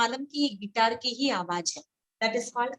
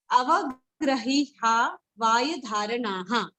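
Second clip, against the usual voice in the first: slowly, syllable by syllable; slow verse recitation; slower than usual. Shown as a demonstration. Teacher giving students today's fifteenth verse, slow recitation. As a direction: stretch out each part of the verse.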